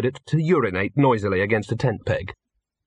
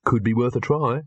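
absent-minded, casual reply; mildly distracted musing. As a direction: say it absently, barely attending.

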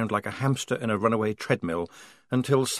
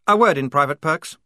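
snapped; 6 semitones higher, 7 dB louder than usual. Acted. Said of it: "snapped Blouse".

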